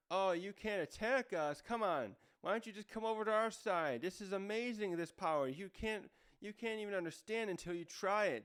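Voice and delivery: mock sales pitch to join the dark side; lightly hammed-up urging; insistent coaxing. Possessed soldiers tempting them over.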